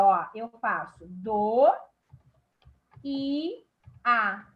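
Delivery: do, i, a split into separate syllables with pauses; separando sílabas. Shown as a demonstration. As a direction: spell out each syllable of doía apart. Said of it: "separando aqui doía". (sílabas separadas: do, i, a)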